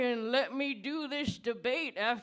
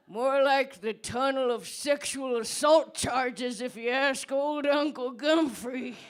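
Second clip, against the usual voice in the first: bitter loud retort; 4 dB louder than usual. Acted.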